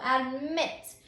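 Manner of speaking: deliberate "admit", with the final syllable MIT stressed. Shown as a demonstration. Teacher showing the strongest last syllable, deliberate stress on MIT. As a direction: say "admit" as ad-MIT, leaning on the end. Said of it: "strongest syllable is on that last syllable".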